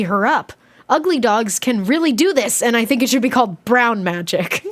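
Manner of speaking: animated diary read-aloud; expressive storybook reading with swooping tune; story narration. A narrator's reading. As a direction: read a kid's diary with lively emphasis.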